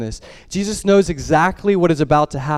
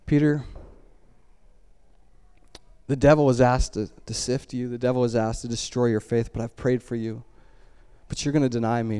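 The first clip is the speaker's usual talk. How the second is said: gently lowered, tender warning; compassionate; 4 semitones lower, 3 dB quieter than usual. Acted. Jesus warning Peter of his denial, compassionate. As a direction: break hard news softly and kindly. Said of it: "just in a compassionate way".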